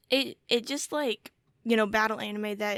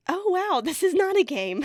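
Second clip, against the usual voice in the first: higher, louder mock realization on "this is not a game"; mock shock; 9 semitones higher, 6 dB louder than usual. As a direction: play the girls' wide-eyed dawning shock. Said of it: "finally they're like".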